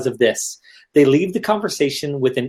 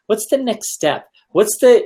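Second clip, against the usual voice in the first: eager salesperson; 5 semitones higher than usual. Retold or imitated. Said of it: "instead it's".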